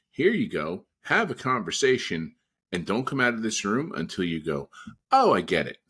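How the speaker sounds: mock instruction. Telling wrestlers to sit and learn, mock firm. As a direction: hand it over like a fed-up boss. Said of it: "and say".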